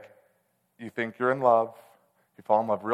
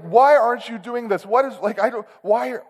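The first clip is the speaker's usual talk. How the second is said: very high, loud, anguished questioning; screaming at God; 12 semitones higher, 7 dB louder than usual. Retold or imitated. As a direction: shout the questions up at heaven. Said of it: "I started just screaming and questioning God".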